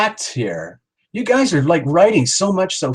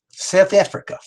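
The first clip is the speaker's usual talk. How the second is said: higher-pitched South African accent try; improved South African accent attempt; 5 semitones higher than usual. Shown as a demonstration. Host retrying for viewers, higher attempted South African accent. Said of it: "Is that better?".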